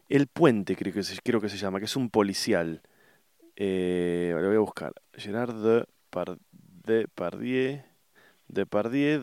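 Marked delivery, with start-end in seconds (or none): 5.1-9.2 typing aloud. Real, not acted. Typing the name while searching.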